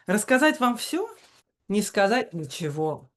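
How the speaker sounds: lilting, chanting Russian verse reading; напевное чтение стихов; sing-song poetry reading. Shown as a demonstration. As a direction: read it like the poet reads himself, in a sing-song. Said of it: "sing-song reading with that inflection".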